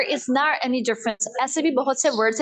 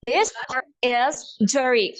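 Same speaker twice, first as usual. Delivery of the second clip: American accent; much slower than usual. Shown as a demonstration. Teacher models pot is dirty, American accent. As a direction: flap the T, slow American. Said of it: "This is American accent".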